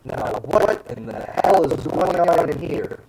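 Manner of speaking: shrill, loud, indignant interruption. Acted. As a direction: burst in high and loud. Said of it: "a very familiar shrill voice say".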